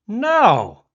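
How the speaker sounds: high, loud retold "no"; acted protest, drawn out and loud; indignant refusal. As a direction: refuse an order outright. Refusing the cop's order.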